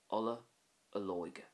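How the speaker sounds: "Ola olóige" with a long ó in the second word; O fada takes over. Shown as a demonstration. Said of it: "the O fada kind of takes over".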